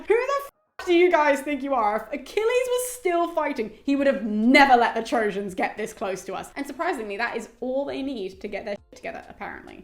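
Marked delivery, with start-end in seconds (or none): 0.1-6.5 hammed-up furious scolding; yelling. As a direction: scold the troops like an outraged goddess. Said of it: "they just start yelling at them".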